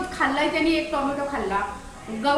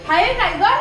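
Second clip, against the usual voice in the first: egging on; 8 semitones higher than usual. Pretend. Owner urging Tiger to bark at the cat, excitedly. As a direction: whip the dog up to bark.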